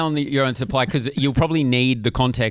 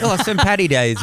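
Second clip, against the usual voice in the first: lightly put-on Irish lilt, pitched up; mock Irish accent; 5 semitones higher than usual. Warning a friend off boring accents, mock Irish accent. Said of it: "If I hear an Irish accent".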